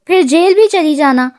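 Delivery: usual speaking voice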